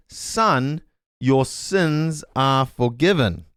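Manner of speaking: slow, solemn "forgiven" drawn out; Jesus's gentle words. Retold or imitated. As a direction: lay the blessing down slowly and gently. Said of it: "Jesus says".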